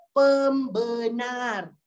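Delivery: "pembenar" stretched slowly syllable by syllable; emphatic syllables. Shown as a demonstration. Teacher pointing out the category name, "pembenar" drawn out.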